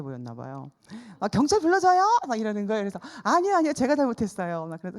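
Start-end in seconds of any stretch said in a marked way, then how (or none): 1.3-2.0 loud, high call from the crowd. Retold or imitated. Bystanders offering help loudly. 3.2-4.7 loud, high hurried refusal; urgent protest. Retold or imitated. Retold hurried loud apology.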